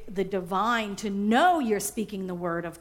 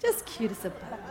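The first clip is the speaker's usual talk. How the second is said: softer, cutesy self-admiration; mock self-adoring; 4 semitones lower, 5 dB quieter than usual. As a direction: coo at yourself like a cute bug. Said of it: "you're just like".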